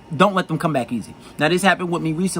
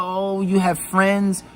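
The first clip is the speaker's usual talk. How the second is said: mock girlfriend; 3 semitones higher, much slower than usual. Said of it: "she talking about".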